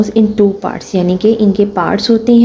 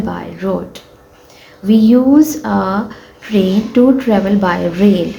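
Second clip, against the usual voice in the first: slow, careful textbook reading; teacher reading a sentence to pupils; slow reading aloud; much slower than usual. Shown as a demonstration. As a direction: read each word slowly for the class.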